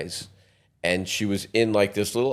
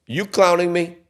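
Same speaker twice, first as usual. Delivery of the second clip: high, louder mock girl voice; girl's mock voice; 10 semitones higher, 5 dB louder than usual. Wife accusing him of joking about the number, high and incredulous. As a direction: squeak it up like she's accusing him. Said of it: "So she goes".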